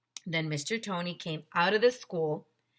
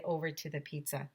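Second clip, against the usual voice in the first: sudden whisper; 3 semitones lower, 8 dB quieter than usual. A narrator's reading. Narration dropping to whisper.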